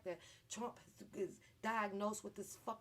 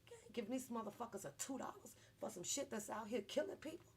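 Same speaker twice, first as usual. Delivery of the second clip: normal talking voice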